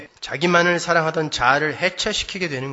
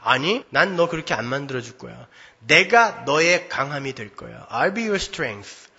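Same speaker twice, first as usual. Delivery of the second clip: God's reply; 3 semitones lower than usual. Retold or imitated. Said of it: "이렇게 대답 안 하세요".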